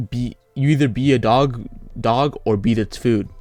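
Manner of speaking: slow, weighty quote delivery; quoting a saying. Retold or imitated. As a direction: lay the motto down slowly like a slogan. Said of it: "so I'm gonna quote it".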